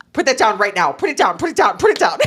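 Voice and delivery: urgent, rising mock alarm; retold urgent order. Man catches two women poking it, urgent mock alarm.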